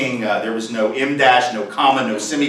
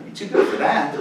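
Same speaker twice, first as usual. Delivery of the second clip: mock sneer. Sneering aside.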